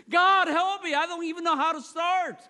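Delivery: loud, high cry for help; imploring, acted prayer; desperate plea to God.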